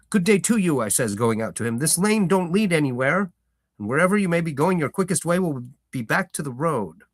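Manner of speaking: country farmer shooing a stranger off his lane; gruff farmer. Acted. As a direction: warn off a stranger, firm and blunt. Farmer voiced in story.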